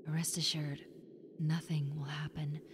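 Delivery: hushed, soothing whisper; calm them with a whisper; whispered reassurance to a nervous tenant; reassuring whisper. Acted. Ghost soothing the worried listener.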